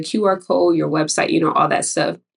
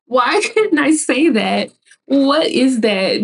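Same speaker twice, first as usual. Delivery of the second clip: higher, slow, laughing bewilderment; laughing disbelief; 6 semitones higher, slower than usual. Real, not acted. Vlogger laughing at herself for forgetting a word, amused. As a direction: laugh at your own mix-up. Laughing at her own brain fart.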